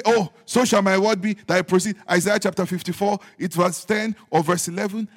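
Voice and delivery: quoting believer. Acted. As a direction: act out confidently reciting chapter and verse. Acts out believer quoting scripture.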